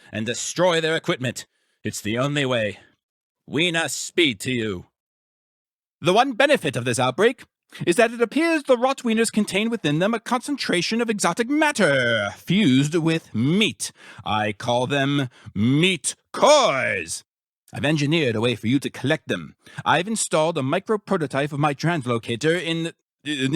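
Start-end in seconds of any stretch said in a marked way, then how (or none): 6.0-17.2 gleeful. Acted. Scientist boasting to his subject about meat cores, gleeful. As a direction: savour the discovery.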